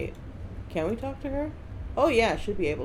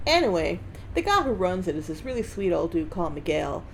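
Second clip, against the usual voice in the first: put-on Southern accent. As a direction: lay on a rough Southern US accent. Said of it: "'cause I'm doing the accent".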